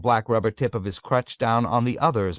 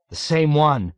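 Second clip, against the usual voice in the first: slightly raised, intense echo; quivering excitement; 5 semitones higher, 4 dB louder than usual. A narrator's reading. Yossarian echoing Dunbar, with uncontrollable excitement. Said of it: "quivering with a deep and ominous excitement".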